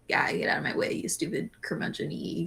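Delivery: hushed, grumpy engineer brush-off; gruff grumble. Pretend. Brainstorming the gruff engineer, a hushed grumpy brush-off. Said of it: "or is he just, like".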